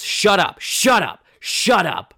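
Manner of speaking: a lounge singer barking at the crowd to shut up; mock angry shout. Tony Clifton yelling at audience.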